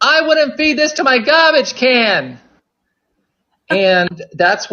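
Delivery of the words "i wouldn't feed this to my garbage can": a hint of a stern, scolding teacher, slow; mock scold from an old kindergarten teacher; mean teacher voice. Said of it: "she would yell at us".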